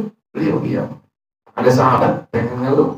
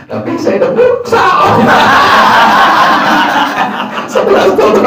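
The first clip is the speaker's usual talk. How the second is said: much higher, squeaky comic complainer; comic complaining voice; 6 semitones higher, 4 dB louder than usual. Retold or imitated. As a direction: squeak it out like a pitiful henpecked husband. (suara tinggi melengking mengeluh lucu)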